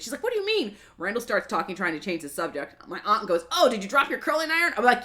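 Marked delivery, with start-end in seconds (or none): 0.2-0.8 incredulous mom. Retold or imitated. Mom pressing daughter for an explanation, incredulous. 3.5-4.7 helpful aunt. Retold or imitated. Aunt covering for niece in the car, helpful. Retold aunt offering an excuse.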